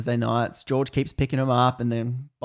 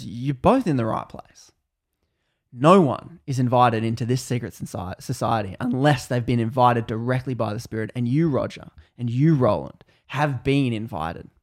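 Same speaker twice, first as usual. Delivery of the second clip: solemn invitation; 2 semitones lower than usual. Acted. George tells Roger and Roland they are invited, solemn. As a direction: draw it out like a formal summons.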